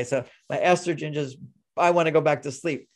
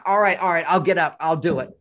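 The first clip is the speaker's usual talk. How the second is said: louder, grudging all right, all right; man's grumble; 4 dB louder than usual. Retold or imitated. Husband giving in to his wife's request, grumbling. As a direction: give in with a reluctant grumble. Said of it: "that's called a man's grumbles".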